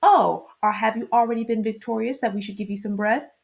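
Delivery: lightly sarcastic retort with a drawn-in "Oh"; mock-innocent question, lightly sarcastic; retold sarcasm. Townsmen answering Gideon's plea for bread, lightly sarcastic. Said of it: "they sarcastically respond".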